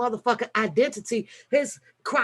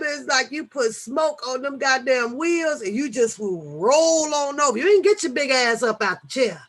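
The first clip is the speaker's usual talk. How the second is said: ordinary delivery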